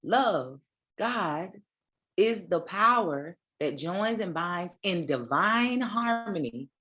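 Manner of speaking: measured, deliberate preaching read; slow sermon reading. Acted. Pastor reading the key teaching slowly to her congregation. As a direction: lay out the definition slowly like scripture.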